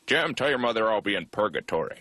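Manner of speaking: lightly voiced stubborn father; a hint of a coughing, unbudging dad; smoker dad. Dad refused smoking at heaven's gates, mildly gruff stubbornness. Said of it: "My dad would just be like".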